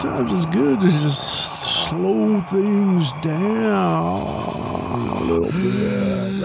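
very slow Southern drawl; cowboy voice. Acted. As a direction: drag it out like a cowboy. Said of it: "a fair amount of cowboy voice".

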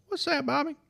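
high falsetto Mississippi wife. Retold or imitated. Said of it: "in my best Mississippi accent I can".

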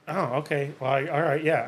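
imitating a deflated bully, mildly. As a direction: back down, a touch sheepish. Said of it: "they almost get sad".

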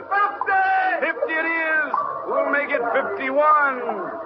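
shouted auction bids; calling out bids. Acted. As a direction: call the bid to the room. Auction bid called out.

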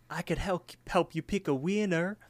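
high-pitched talking pie; Promise Pie. Acted. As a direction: make the offer in a high cartoon voice. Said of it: "The pie says".

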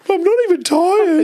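imitating the woman. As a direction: mimic a sulky woman on the couch, high and drawn out. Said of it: "the woman goes".

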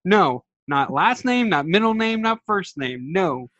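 high-pitched, emphatic retold protest; exasperated rant. Ranting at the show over a wrong name, exasperated. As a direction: rant it, punching each objection, pitch jumping up. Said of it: "Sorry for the rant".

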